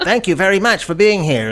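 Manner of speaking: put-on light jokey British accent. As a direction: put on a polite mock British voice. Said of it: "all these British actors".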